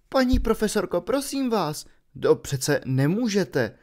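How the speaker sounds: Harry begging the professor to reconsider; pleading boy. Acted. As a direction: beg the teacher not to do it.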